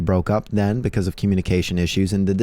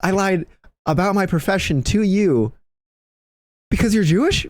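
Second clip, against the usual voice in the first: pitched way up, exasperated disbelief; exasperated high outburst; 11 semitones higher than usual. Retold or imitated. Telling his paintball teammate he's been sitting on that, high exasperated squeal.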